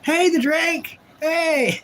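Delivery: high drawn-out Gump greeting; Forrest Gump voice. Pretend. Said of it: "my Forrest Gump wave".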